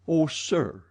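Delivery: high, loud impatient outburst. A narrator's reading. Raoul growing impatient with the Persian. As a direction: brush him off impatiently. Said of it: "becoming more and more impatient".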